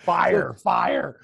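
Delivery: gasping out "Fire, fire" like vodka scorched the throat; hammed-up gasp of heat; mock burning breath. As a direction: pretend the drink is burning you. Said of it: "Just breathing".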